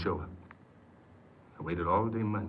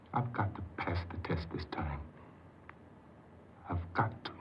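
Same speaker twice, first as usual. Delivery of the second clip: softer and softer down to a breath; fading quiet resolve; 4 dB quieter than usual. Acted. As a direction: whisper the promise to yourself. Resolving to pass parole.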